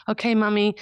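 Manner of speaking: put-on young sons' voice. Voicing her young sons.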